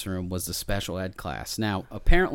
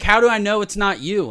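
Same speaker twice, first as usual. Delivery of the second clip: high, raised suspicious challenge; acted accusing teacher; 10 semitones higher, 8 dB louder than usual. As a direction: fire the question back through the door. Retold suspicious teacher shouting back.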